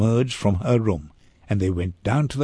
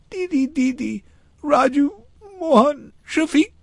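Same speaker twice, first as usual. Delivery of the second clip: put-on very high, urgent child's voice; high-pitched acted boyish wail; distressed small boy. A narrator's reading. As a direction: blurt it like an upset little boy. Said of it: "The boy was sobbing".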